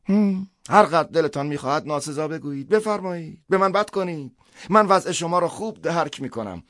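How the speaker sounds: high-pitched priest, enduring abuse; long-suffering priest. Acted. Priest invites Schnier to insult him, long-suffering.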